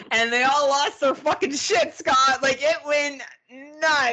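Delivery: high-pitched, worked-up climax; excited storytelling. Real, not acted. Teller tells Scott how the tour group lost it, excited and high. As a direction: pitch it up, hit the punchline with glee.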